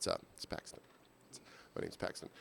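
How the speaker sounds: whispered, breathy mumble, almost inaudible. Describing how the speaker tells people their name: too quiet to hear. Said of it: "I'll never raise my voice enough to where they can actually hear it".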